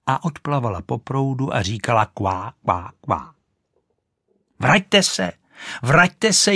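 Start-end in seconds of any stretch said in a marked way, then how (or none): 4.6-6.5 high, louder shriek after the duck. Acted. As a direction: screech to call her back. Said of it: "ječela Rachejtle". (pištivě a hlasitě volá kachnu zpět)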